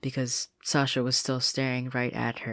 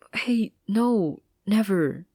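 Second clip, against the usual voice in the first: louder, higher protest; urgent reassurance; 9 semitones higher, 8 dB louder, slower than usual. Acted. Sasha reassuring Marcy, loud and urgent. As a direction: cut her off to comfort her.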